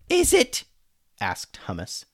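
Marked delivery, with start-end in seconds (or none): 0.1-0.6 very high, loud squawk; indignant high-pitched retort; sarcastic challenge. A narrator's reading. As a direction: throw it back incredulously. Hummus sarcastically challenges Alex.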